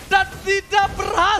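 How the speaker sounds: loud, high shouted call; excited shout. Real, not acted. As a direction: yell the play as it fails. Caster shouts during team fight.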